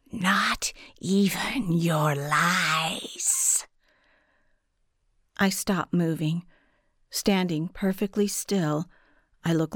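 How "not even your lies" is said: dark whisper behind you. A narrator's reading. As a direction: breathe it from the shadows, slowly. Guardian voice hisses from darkness.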